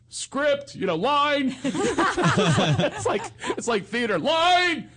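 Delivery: high frantic whisper-shout for the line; hammed-up panic, begging for his cue; mock panic. Panicking naked at the door.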